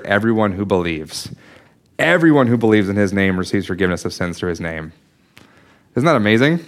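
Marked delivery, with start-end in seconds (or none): 0.0-4.9 sermon emphasis on "everyone"; stress on everyone. Shown as a demonstration. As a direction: press down on "everyone who believes". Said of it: "let's point out the emphasis on the word".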